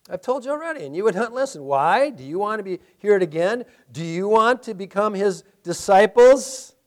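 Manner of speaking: dry mocking retort; sarcastic. Pastor voicing the healed man's sarcastic reply to Pharisees. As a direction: tease them with the question. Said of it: "a little bit of sarcasm going around in his response".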